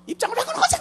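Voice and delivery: very high-pitched mimicked plea; mock prayer. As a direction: mimic a demanding prayer in a squeak. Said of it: "뭐라고 말하는 거 아니?". (높은 목소리로 기도를 흉내 내며)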